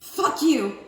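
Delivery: loud, high Australian yelp; Australian accent. Pretend. Tarot reader bursting into a mock Australian accent. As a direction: shout it like a cheeky Aussie. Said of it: "I wanted to do, like, an Australian accent".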